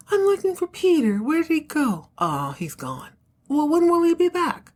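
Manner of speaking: high, insistent questions; demanding Fallon. Retold or imitated. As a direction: pitch it up and press for answers. Fallon demands Peter's whereabouts.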